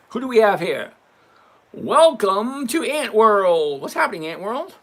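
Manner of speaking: loud, high welcome like a show host; hyped greeting. Acted. Greeting viewers as they arrive.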